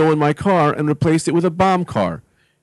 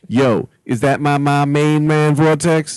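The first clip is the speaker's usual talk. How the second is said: street greeting; 2 semitones higher, slower than usual. Shown as a demonstration. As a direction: call out to an old pal, rising. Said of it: "It's more said".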